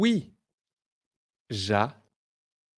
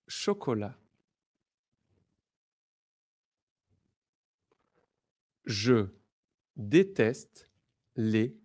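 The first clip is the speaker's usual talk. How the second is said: repeat slowly; 3 semitones lower than usual. Shown as a demonstration. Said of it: "Listen and repeat with me".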